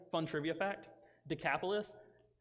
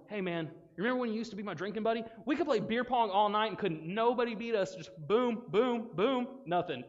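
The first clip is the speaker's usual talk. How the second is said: lightly acted excited pal, pitched up; griping drinking buddy; 5 semitones higher, 4 dB louder than usual. Friend to converted drinking buddy, animated complaint. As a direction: reminisce like a worked-up party buddy.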